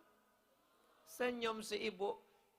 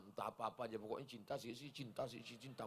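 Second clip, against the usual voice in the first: mock dreamy answer; 9 semitones lower, 11 dB quieter, faster than usual. Mocking a vague listener.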